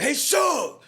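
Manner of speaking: loud shout calling out; holler. Retold or imitated. Bird hollering to Suge from the car, loud. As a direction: shout across the street. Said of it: "He holler out loud".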